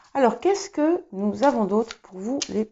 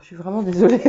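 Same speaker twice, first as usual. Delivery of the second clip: embarrassed laugh; 3 dB louder, much faster than usual. Real, not acted. Embarrassed after sneezing.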